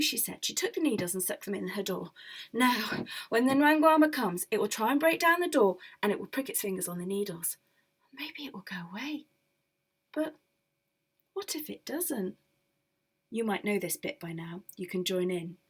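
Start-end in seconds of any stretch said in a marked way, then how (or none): 2.5-12.4 mildly anxious woman. Acted. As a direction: talk yourself through the plan nervously. Woman rehearses plan anxiously.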